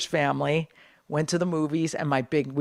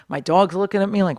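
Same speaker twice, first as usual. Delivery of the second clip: usual speaking voice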